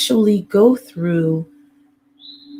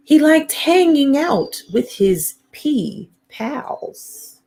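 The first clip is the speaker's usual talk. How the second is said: slow, higher storybook lilt; reading to children; 8 semitones higher, slower than usual. A narrator's reading. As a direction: draw it out playfully for little listeners. Reads picture book to children.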